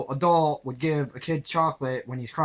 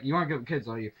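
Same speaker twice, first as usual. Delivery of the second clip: softer, matter-of-fact version; gentle knowing remark; 2 semitones lower, 5 dB quieter, much faster than usual. Retold or imitated. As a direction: say it mildly, just stating the obvious. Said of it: "She didn't come out that harsh".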